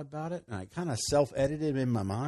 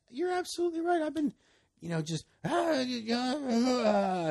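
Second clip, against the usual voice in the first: excited realization; 12 semitones higher, 3 dB louder than usual. Retold or imitated. Retelling his eager reply.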